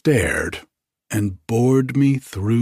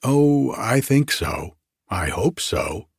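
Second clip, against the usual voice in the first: bright; 3 semitones higher than usual. Acted. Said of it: "said Bertha brightly".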